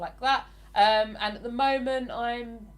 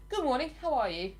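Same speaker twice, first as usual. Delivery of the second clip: higher, proper English greeting; English accent; 5 semitones higher than usual. Acted. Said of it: "Oh, I'm so English".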